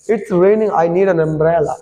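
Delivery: slow reading, "an" said as "un"; weak "un" article. Shown as a demonstration. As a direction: run "an umbrella" together as "un-umbrella". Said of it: "अन पढ़ना है". ("an" को "अन" पढ़ें, जोड़कर)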